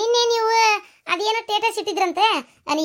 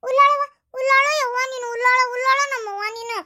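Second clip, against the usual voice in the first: exaggerated fussing; 6 semitones higher than usual. Mock wailing over the hurt woman.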